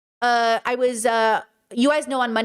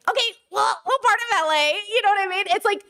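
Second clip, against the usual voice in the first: sceptical; 9 semitones higher than usual. Retold or imitated. Sceptical retort, raised pitch.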